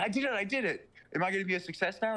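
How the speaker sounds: excited stoner. Retold or imitated. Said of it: "he's like".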